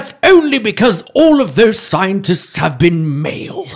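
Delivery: hushed, awed wildlife narrator, laughing; nature documentary. Pretend.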